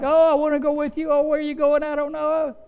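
put-on a frightened little kid begging not to be left behind; panicking little child. Preacher voicing the disciples as a panicking child, high and whiny. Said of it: "just like a little child might".

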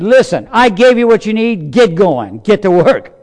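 God fed up with excuses, booming; stern God. Retold or imitated. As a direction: bark the orders, impatient. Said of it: "finally God said".

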